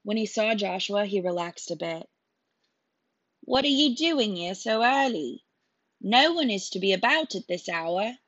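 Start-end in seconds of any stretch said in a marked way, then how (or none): 3.4-8.1 stern soldier. Acted. Soldier questions boys at night.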